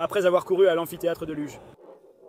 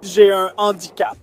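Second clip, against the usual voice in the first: slow, tearful protest; crying; 3 dB louder than usual. Real, not acted. Suspect explains himself to the arresting officer, crying. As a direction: drag the words out through tears. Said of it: "arrête de pleurer".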